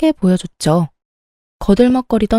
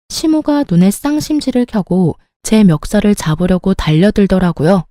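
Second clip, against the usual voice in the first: plain reading voice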